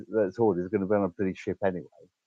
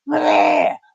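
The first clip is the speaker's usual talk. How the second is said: retold yell; 8 dB louder than usual. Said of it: "any neighbours would have heard a".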